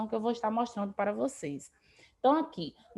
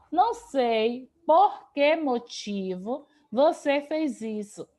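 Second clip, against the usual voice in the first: drawn out slowly so students catch the inserted word; teacher slowing down to show where "motivo" goes after "por que"; slow, deliberate example; slower than usual. Shown as a demonstration. Teacher spells out the example slowly for students, deliberate pace. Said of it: "coloque a palavra motivo depois do porquê".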